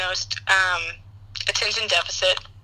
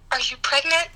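imitating a mother's tender, higher-pitched question; nurturing, higher-voiced probing; sympathetic mom; 4 semitones higher than usual. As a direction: ask it with mock motherly concern. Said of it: "all the sympathy in the world".

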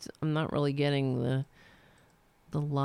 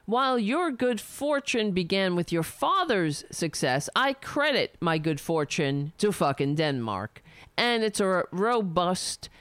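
reading a letter aloud. Acted. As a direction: read it out like a formal open letter. Reads the letter aloud again.

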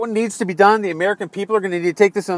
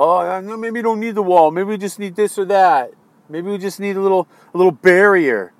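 mock waffling, drawn into a string of maybes. Voter mimicking president backing off the wall, mocking. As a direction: imitate a backpedaler with scorn.

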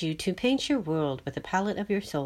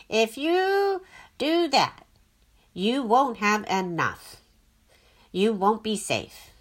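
anxious inner voice; 2 semitones higher, 4 dB louder, slower than usual. A narrator's reading. Mind arguing with itself.

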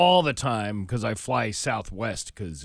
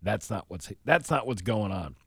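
ordinary talk

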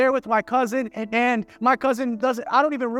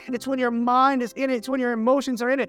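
raised-pitch, emphatic sermon delivery; impassioned preaching; 4 semitones higher than usual. Real, not acted. Preacher urging believers to praise God, impassioned preaching. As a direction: press each point home to the congregation.

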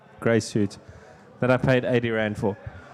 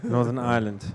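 mock sponsor title. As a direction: drag out the full title as a joke. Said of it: "It's the Pick n Pay Northern Ireland".

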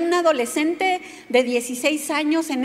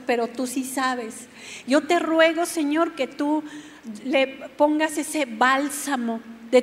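tender prayer. Retold or imitated. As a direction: pray over her gently and humbly. Prays aloud for mother.

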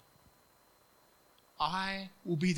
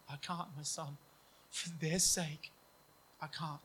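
grieving father; 4 dB quieter than usual. Retold or imitated. God answers son, grieving.

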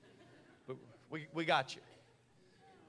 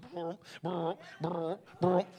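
machine noise; slower than usual. Retold or imitated. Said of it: "It goes".

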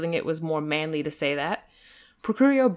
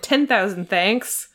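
slow, drawn-out thanks; effusive thanks; 4 dB louder, slower than usual. Acted. Mister Saltina thanking the valet, slow. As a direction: savour each word of gratitude. Overgrateful guest.

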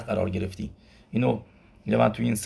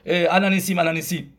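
mock shout, pitched higher; retold shout; 5 semitones higher than usual. Teacher imitating a congregant yelling too early. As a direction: call out الهنیسیم too early, half-yelled. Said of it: "بعد یکی داد زد گفت".

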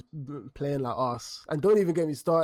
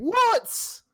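shocked what. Real, not acted. Friend reacting to the Sterling claim, shocked disbelief. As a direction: yelp it in disbelief.

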